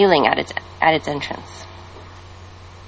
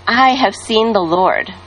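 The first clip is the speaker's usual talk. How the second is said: announced; 3 semitones higher, slower than usual. Acted. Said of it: "announced to them all".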